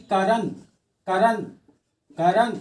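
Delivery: करण said with weight on क; stress on क in करण. Shown as a demonstration. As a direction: lean on the first syllable of करण. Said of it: "क पर सबसे ज्यादा जोर पड़ रहा है".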